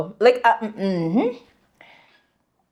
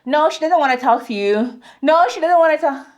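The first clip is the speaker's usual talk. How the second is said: lightly acted protective friend; mock bouncer turning someone away; self-appointed bouncer; 6 semitones higher than usual. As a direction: wave off a suitor, a little higher on the repeat. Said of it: "unaamua wewe ndio utakuwa bouncer".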